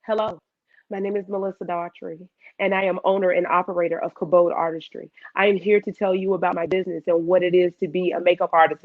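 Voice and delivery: polished formal introduction; presenter voice. Shown as a demonstration. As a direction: deliver it like an event host. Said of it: "today I still practice".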